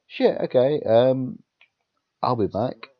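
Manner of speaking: flustered panic. Retold or imitated. Flustered while bleeding, retold.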